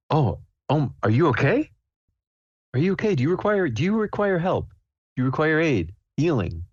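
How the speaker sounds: high-pitched, solicitous character voice; concerned adventurer. Acted. Adventurer checks on a distressed stranger, high and concerned. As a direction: offer help in a high, careful voice.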